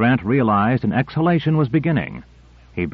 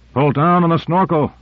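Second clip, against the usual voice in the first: yelled; 6 semitones higher than usual. A narrator's reading. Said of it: "yelled Grant".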